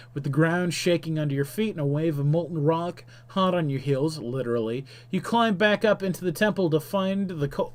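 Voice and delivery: lively game-story narrator; dramatic story narration. A narrator's reading. Narrator tells player of the exploding shrine, dramatic narration. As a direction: narrate the climax with punchy emphasis.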